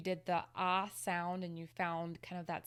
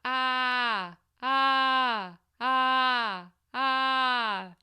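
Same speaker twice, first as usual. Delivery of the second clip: buzzy, focused, much louder ah; gentle scolding ah; 6 semitones higher, 13 dB louder, much slower than usual. Shown as a demonstration. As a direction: bite the apple and scold gently on ah. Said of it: "scolding somebody in a gentle manner".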